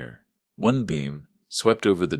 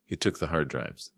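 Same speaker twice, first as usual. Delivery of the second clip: whispered; 5 dB quieter than usual. Acted. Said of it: "Sarah whispered".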